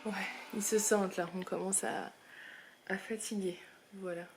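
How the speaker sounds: quiet voice. Real, not acted. Children asleep, speaks softly.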